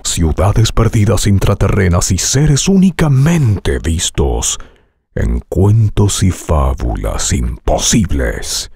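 deep, slow epic trailer narration; movie trailer voice. Shown as a demonstration. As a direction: announce it like a blockbuster trailer. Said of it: "Te sugiero algunas".

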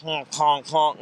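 imitated pig honks; short animal honks in mimicry; pig honking. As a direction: honk like a pig. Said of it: "The pig was like".

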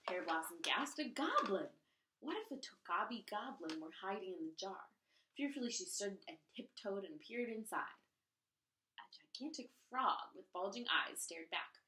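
lively read-aloud storytelling voice; story narration. A narrator's reading. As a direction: read it like a picture book for a class. Reads story to children.

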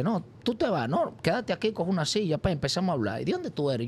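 friendly stranger. Retold or imitated. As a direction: play the guy who suddenly warms up to you. New friend invites him to stay.

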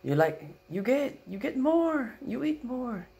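high, loud broken-English coaxing; Filipino grandma accent. Retold or imitated. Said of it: "she goes".

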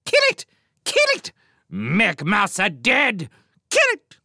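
very high, loud screeched orders; mad exhortation. A narrator's reading. Sparrow king urges warriors onto the mouse, screeching madly. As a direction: urge the flock on in a bird's frenzy. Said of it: "the mad exhortations of their king".

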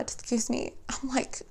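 hoarse, voice giving out; losing voice. Real, not acted. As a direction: voice fading and cracking. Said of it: "losing my voice".

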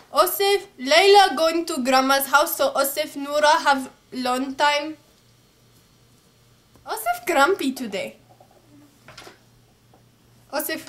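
put-on playful Arab accent with clipped grammar. Teasing partner about being grumpy, mock Arab accent. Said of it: "I should do my Arab accent".

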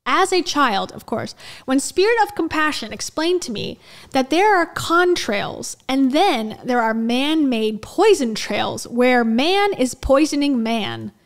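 slow, deliberate mock-guru read; over-enunciated reading. Reading his chemtrail childhood story, over-enunciated. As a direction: draw out and punch the key words. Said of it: "tries to enunciate all of the words".

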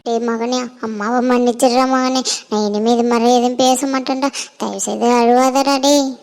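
low, soft begging forgiveness; a mother softly begging her son to stop crying; pleading mother. Acted. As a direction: hush and plead with a hurt son. Mother begs son's forgiveness.

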